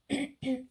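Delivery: clears a sore throat; real throat clear, loud; clearing a worn-out voice. Real, not acted. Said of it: "Désolée, j'ai plus de voix".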